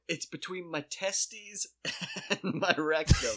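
slow, formal medical wording; clinical doctor talk. Retold or imitated. To the doctor, slow and clinical like a physician. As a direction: spell it out like a doctor would. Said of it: "You went full doc on it".

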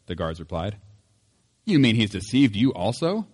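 measured, clear reading of the Bible passage; preacher reading scripture before the sermon. Acted. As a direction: read the gospel aloud to the congregation. Reads the scripture passage aloud.

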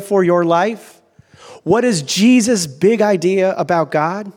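slow, emphatic preaching. Real, not acted. Preacher urging the congregation to trust Jesus, emphatic preaching. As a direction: drive each phrase home slowly.

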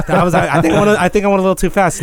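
breathless, laughing through it; out of breath. Real, not acted. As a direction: still panting after push-ups. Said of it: "I'm winded from these push-ups".

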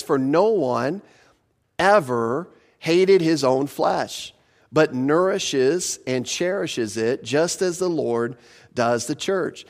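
slow, deliberate reading of the verse; measured preacher reading a Bible verse; slow scripture reading. Acted. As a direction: lay each phrase down slowly, like Scripture. Reads scripture verse slowly.

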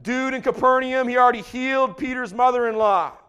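breathless rapid-fire list; preacher's relentless run-through. Real, not acted. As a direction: rattle off the list with driving energy. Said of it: "Rapid fire now".

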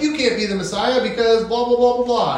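mocking opponents. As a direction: rattle it off like a dismissive heckler. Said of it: "And they're like".

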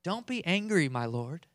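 a hint of timid pleading; soft-spoken Aaron. Aaron pleading with Moses, lightly voiced meek. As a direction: plead meekly with your brother. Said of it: "the most soft-spoken".

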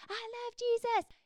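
high, slow, dreamy camp-high gush; gushing teen. Retold or imitated. Mimics a teen just back from camp, high dreamy gush. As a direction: swoon like a kid fresh off camp.

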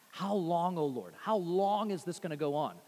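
desperate plea, held down and subdued; cried in desperation. Retold or imitated. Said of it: "that's cried in desperation".

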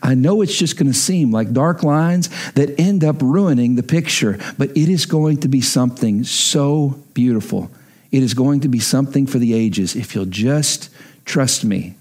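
low, tender voicing of a heavenly father; God reassuring. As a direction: gently ask for trust, imagined as God. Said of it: "does our God look at us and go".

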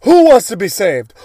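loud, booming call to the flock; hammed-up preacher shouting at the congregation; preacher's call. Preacher booming a call to the congregation.

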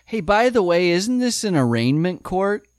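a lightly voiced smart-aleck kid needling the judge; quoting Jeremy. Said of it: "it leads him to say".

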